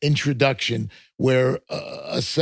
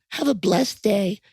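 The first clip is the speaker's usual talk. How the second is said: hammed-up Southern accent, pitched up; Southern blessing; 6 semitones higher than usual.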